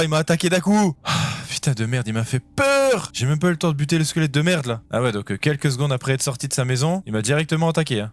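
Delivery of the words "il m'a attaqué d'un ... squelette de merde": scared horror game streamer. Real, not acted. Right after the jump scare.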